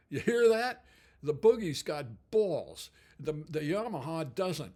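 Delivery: lightly imitated New Jersey accent, punchy. Guitarist showing off the amp, mock New Jersey accent. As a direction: play a New Jersey guy making his point. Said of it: "spoke with the New Jersey accent".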